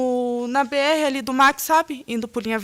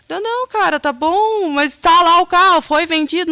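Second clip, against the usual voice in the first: higher, urgent, pressing questions; agitated questioning; 7 semitones higher, 5 dB louder than usual. Retold or imitated. To Eduardo on the phone, higher and agitated. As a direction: push him for a straight answer. Heated phone call about car.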